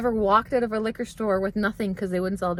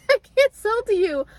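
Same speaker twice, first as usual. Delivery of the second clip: high, loud echo through laughter; laughing disbelief; 11 semitones higher, 5 dB louder than usual. Retold or imitated. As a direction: repeat it incredulously, cracking up. Laughs repeating clerk's refusal.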